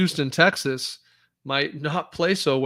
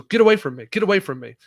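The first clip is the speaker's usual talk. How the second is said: louder, higher firm command; commanding shout; 4 semitones higher, 7 dB louder, faster than usual. Shown as a demonstration. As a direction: bark it to drive someone off. Demonstrating a command phrase.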